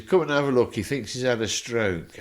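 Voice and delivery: retold call from the doorway. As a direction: summon her to come and look. Jeff calling Margaret over.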